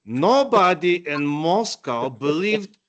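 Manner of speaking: put-on slow, drawn-out, heavy Ukrainian accent; thick Ukrainian accent. Friend mimics Miroslav telling of Moscow, thick Ukrainian accent. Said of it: "I'll mimic his very thick accent".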